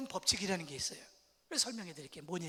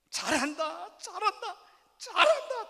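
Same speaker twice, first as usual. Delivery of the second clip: louder and higher each time, laughing and mocking; sarcastic praise; 9 semitones higher, 11 dB louder, slower than usual. Shown as a demonstration. Preacher showing how twisted intonation mocks, sarcastic and rising. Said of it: "억양을 틀어버리니까 뜻이 달라져요".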